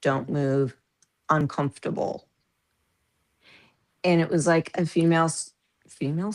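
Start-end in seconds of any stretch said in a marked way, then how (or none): 0.0-2.3 flat, even doctor's monotone. Retold or imitated. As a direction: say it all on one note. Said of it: "my doctor talked monotone to me".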